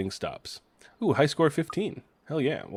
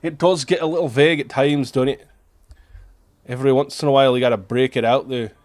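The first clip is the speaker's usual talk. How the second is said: fake Scottish accent; 6 dB louder, faster than usual. Streamer mocking the easy drought to chat, fake Scottish accent. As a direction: scoff at the game in a mock Scottish brogue. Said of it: "my fake Scottish accent".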